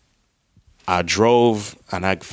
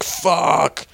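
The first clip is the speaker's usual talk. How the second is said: frustrated curse; 8 semitones higher than usual. Retold or imitated. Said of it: "And I was like".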